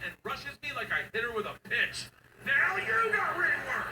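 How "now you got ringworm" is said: put-on slow, loud, high taunting kid; gloating kid. Daughter rubbing ringworm on dad, gloating. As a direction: taunt triumphantly with a laugh.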